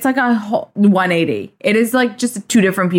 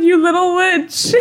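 higher mock mom scolding; imitating mom; 10 semitones higher than usual. Sister quoting mom calling host a witch, mock scold. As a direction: sneer it like a caricatured mom. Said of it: "she said".

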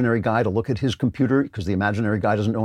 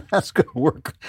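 amused, higher-pitched sarcasm; laughing scorn; 5 semitones higher than usual. Real, not acted. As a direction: scoff through a laugh. Sarcastic mocking of policy.

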